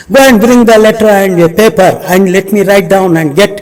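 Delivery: loud, fast order to an assistant; brisk command. Retold or imitated. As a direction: issue the order fast and firmly. Umar orders his assistant.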